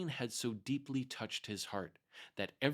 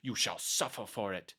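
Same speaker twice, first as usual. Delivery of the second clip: angry; 3 semitones higher, 4 dB louder than usual. Acted. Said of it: "she said with angry look".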